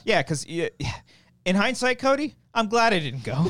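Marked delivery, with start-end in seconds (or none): 1.4-3.5 tipsy, loose high chatter. Real, not acted. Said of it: "I'm so drunk right now".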